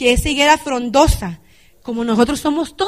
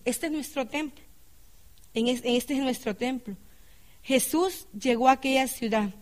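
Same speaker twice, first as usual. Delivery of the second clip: much softer, reverent aside; hushed; 8 dB quieter than usual. Real, not acted. Preacher speaks hushed and intimate to the congregation.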